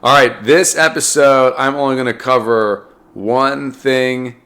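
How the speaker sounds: talking through a cold; slightly sick, congested voice. Real, not acted. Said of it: "I still have slightly sick voice".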